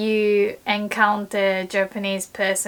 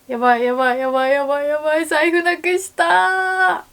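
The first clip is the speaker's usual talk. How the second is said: frantic repeated yabai, rising higher at the end; panicked muttering; 5 semitones higher, 4 dB louder, much faster than usual. Retold or imitated. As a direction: mutter it in a panic over a lost wallet. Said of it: "The other day I was like".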